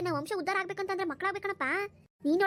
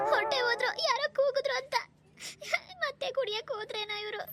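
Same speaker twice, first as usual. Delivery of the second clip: high-pitched crying complaint; tearful lament; 5 semitones higher than usual. Acted. Wife laments husband leaving to drink, crying. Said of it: "ಅಳ್ಬೇಡ ಸುಮ್ನಿರು".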